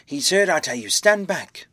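loud shout climbing high at the end; urgent order. A narrator's reading. Doctor shields the hurt man from crowd, loud command. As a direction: push the crowd back with your voice. Kemp orders the mob back.

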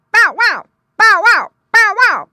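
high, loud bow-wow barks; dog bark. A narrator's reading. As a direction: bark the words out like an excited dog. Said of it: "barked Don".

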